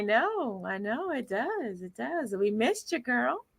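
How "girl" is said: ordinary delivery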